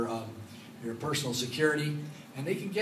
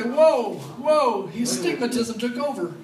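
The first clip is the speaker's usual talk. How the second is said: much higher, louder laughing whoa; mock heckler; 8 semitones higher, 7 dB louder, slower than usual. Preacher voices a congregant startled by his slip, laughing high whoa. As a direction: play a startled listener. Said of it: "Somebody say".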